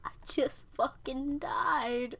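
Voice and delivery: slow whispered last words; hammed-up death whisper; mock dying. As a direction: croak it out slowly as if dying. Pretends to die after screaming.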